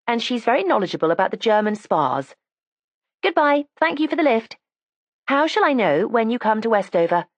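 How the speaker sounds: lightly voiced, eager young girl; young girl's voice. Erica says goodbye.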